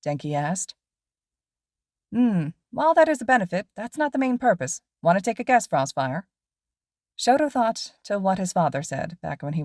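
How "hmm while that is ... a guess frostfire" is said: higher, louder, energetic teacher voice; lively pro hero explaining to students; cheerful teacher lecturing his two students on patrol; upbeat hero teacher. Acted. Mike Sensei quizzing students.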